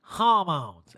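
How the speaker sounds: deadpan mimicked answer, drawn out; Erica. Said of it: "And Erica goes".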